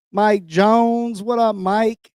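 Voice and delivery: loud, high call-out to co-host; hype intro. Acted. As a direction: hype him up. Hyping up the co-host.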